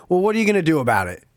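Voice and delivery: breezy provocation, tossed off fast; egging on the old man, daring him to act; taunting challenge. Retold or imitated. Cocky challenge thrown quickly at the angry old man. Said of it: "the classic line to get any man's emotions".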